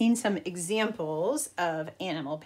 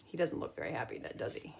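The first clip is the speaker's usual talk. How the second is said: whisper; 7 semitones lower, 8 dB quieter, faster than usual. Real, not acted. Teacher pointing at the picture, whispering. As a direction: whisper it like a secret.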